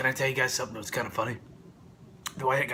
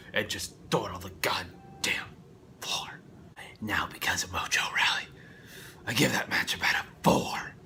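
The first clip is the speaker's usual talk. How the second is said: whisper; 4 semitones lower than usual. Real, not acted. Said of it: "whispered rant end".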